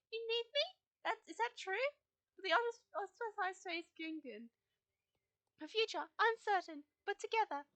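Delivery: lightly voiced wise guide, comforting; gentle Fripp voice. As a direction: console the grieving rider as Fripp.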